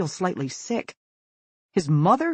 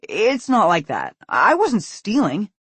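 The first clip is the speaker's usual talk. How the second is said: pleading protest; 6 semitones higher, 8 dB louder, slower than usual. A narrator's reading. Caught son protesting.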